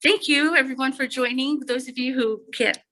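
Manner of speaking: muffled through a face mask; speaking behind a mask. Real, not acted. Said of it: "I know I have a mask on my face".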